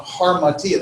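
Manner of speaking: harmatia opened with a clear H; H sound in front. Shown as a demonstration. Teacher showing how rough breathing is pronounced, harmatia with an H sound. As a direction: say harmatia with an H before the first vowel. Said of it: "you pronounce it with the H sound".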